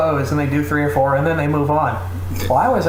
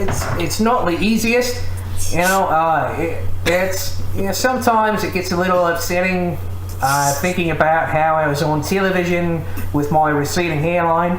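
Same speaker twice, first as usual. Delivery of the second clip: put-on New Zealand accent; 3 semitones higher than usual. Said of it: "Can you do a, um, a New Zealand accent".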